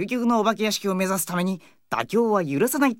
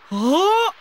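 much higher, loud cry of realization; sudden alarmed shout; 12 semitones higher, 4 dB louder than usual. Real, not acted. Boy realizes he left his bag, shouting. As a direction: blurt it out in a panic.

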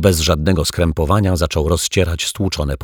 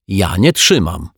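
indignant; 4 dB louder than usual. Acted. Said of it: "oburzył się pan Mietek".

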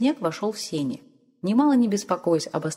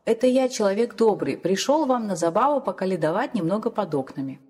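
plain reading voice

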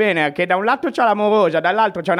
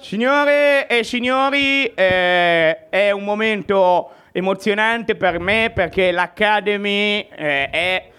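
showman introducing an act; announcer. Acted. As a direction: build it up to a big name. Host introduces the first act. (annuncio da presentatore)

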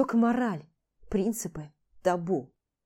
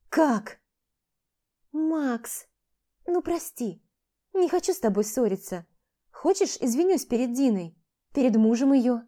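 higher female voice, coaxing apology; pleading woman; 4 semitones higher, 4 dB louder than usual. Acted. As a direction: wheedle him into forgiving. Vlada pleads with Max. (высокий женский голос, уговаривающий)

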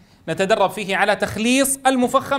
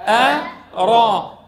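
أ and را split apart, slow and louder; staccato; 2 semitones higher, 4 dB louder, much slower than usual. Shown as a demonstration. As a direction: slowly separate each syllable. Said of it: "يلا معاي".

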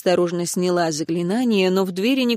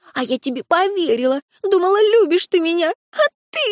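высоко, со срывом в крик; упрекнуть в обмане; обиженный упрёк; 9 semitones higher than usual. A narrator's reading. Лури упрекает короля. (обиженно и надрывно)

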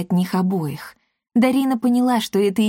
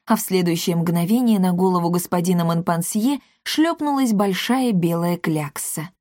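plain reading voice

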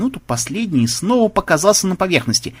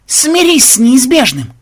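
slow, high, loud demand; drawn-out commanding shout; yelling; 10 semitones higher, 6 dB louder, slower than usual. A narrator's reading. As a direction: bellow it slowly at the struggling opponent. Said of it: "орал ксенобайт".

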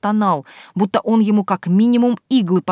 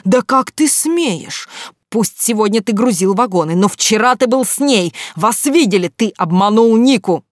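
higher and louder, building fury; flaring up; 4 semitones higher, 6 dB louder than usual. A narrator's reading. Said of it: "встрепенулся Гайдамак, распаляясь". (распаляясь, всё громче и выше)

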